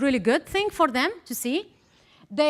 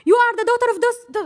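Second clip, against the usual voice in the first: high mock voice; 11 semitones higher, 6 dB louder, much faster than usual. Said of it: "I was like".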